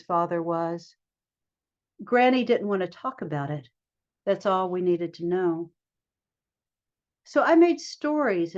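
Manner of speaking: measured recital, pausing after each phrase; poem reading. Acted. Poet reading a poem about her grandmother to listeners, measured poem reading. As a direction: let each line of verse stand on its own.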